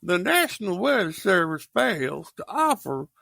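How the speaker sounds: put-on old broadcast voice. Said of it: "you sounded just like Dad".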